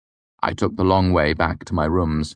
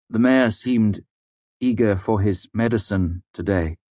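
careful clear speech; 4 semitones higher than usual. Acted. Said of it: "taking extra care to speak clearly".

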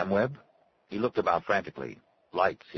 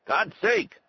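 high, loud outburst; fed-up shout in character; exasperated yell; 5 dB louder than usual. A narrator's reading. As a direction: yell it out, pitch jumping way up. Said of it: "Arnie yelled".

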